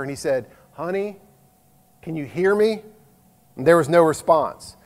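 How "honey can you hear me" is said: quietly, from a distance; softly asking the wife; soft call. Retold or imitated. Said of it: "he just spoke softly to her".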